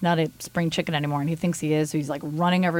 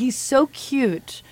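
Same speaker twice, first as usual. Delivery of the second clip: cutesy gush; 5 semitones higher, much slower than usual. Real, not acted. Gushing over her cat.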